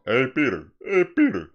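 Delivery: high, loud cartoon-character call; Joe Swan. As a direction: call out in an impression. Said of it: "I like to do my, uh, Joe Swan".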